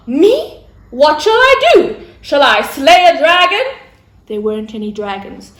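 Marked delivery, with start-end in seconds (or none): 0.1-3.7 Mary's voice. Acted. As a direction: play young Mary, humble and amazed. Mary eagerly asks Gabriel.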